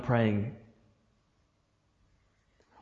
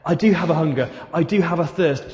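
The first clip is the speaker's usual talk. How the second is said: mildly raised, emphatic plea to God; a touch louder and higher, insistent; crying out; 4 semitones higher, 4 dB louder than usual. Acted. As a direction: lift the voice in earnest declaration. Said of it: "crying out to God and saying".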